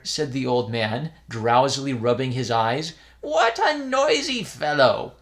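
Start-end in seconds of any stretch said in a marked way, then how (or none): 3.2-5.1 put-on high, slow grumbling old man; grumpy old priest. A narrator's reading. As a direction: grumble at the noisy boy.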